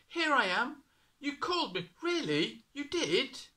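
put-on high, loud, bewildered boy; a boy baffled by the calls; puzzled young boy. A narrator's reading. Boy puzzled, third time.

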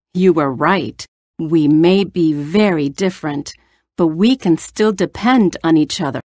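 a grateful lion thanking his small friend; lightly voiced lion, sincere; gentle lion. Lion voiced in read fable.

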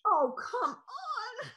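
slow, high disgusted whine; disgusted groan. Acted. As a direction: drag it out in disgust. Disgusted at Carl peeing.

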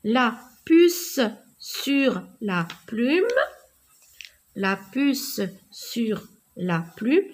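measured classroom dictation pace; repeat-after-me model. Shown as a demonstration. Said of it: "Répétez après moi".

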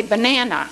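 "banana" with the middle "na" accented; stress on second syllable. Shown as a demonstration. Teacher showing where a word's accent falls, stress on second syllable. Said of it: "the accent is on the na".

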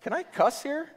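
high, loud incredulous no, then a laugh; mock shock, laughing; shocked disbelief. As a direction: act stunned that he is a pastor. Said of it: "we even get to like".

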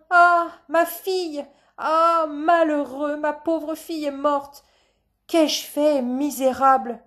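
high, loud theatrical lament; grieving stage father. Acted. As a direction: wail slowly over your lost child. Father laments seemingly dead daughter. (lamentation théâtrale, aiguë et forte)

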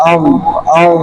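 আউ said with the ghain held as a continuous voiced throaty rasp; voiced sakin ghain. Shown as a demonstration. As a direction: keep the voice running through the ghain in আউ. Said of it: "গইন হরফ উচ্চারণের সময় এই যে".

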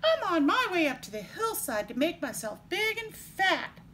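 high little goat voice; very small voice. A narrator's reading. Youngest goat explaining himself to the troll, small high voice. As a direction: pipe up as the tiniest goat. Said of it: "in his very small voice".

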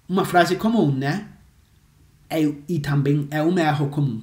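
ordinary delivery

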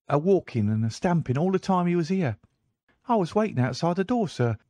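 put-on high, eager young servant voice; a boy servant speaking up to his master; page boy. Page boy reporting a visitor to Holmes, high and eager.

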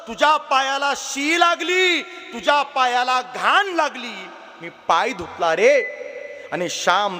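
a mother pressing love into her son's ear; mother speaking to her child. Acted. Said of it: "आई हळूच कानात बोलते".

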